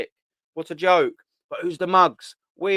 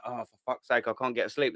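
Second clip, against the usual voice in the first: lower, softer sleepless grumble; groggy mutter; 5 semitones lower, 7 dB quieter than usual. Retold or imitated. Lying awake after a loss, low sleepy grumble. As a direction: moan it low like you cannot sleep. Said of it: "rolling around like that".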